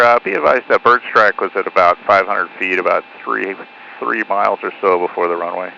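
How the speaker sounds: pilot over the radio. Real, not acted. Pilot reports bird strike by radio.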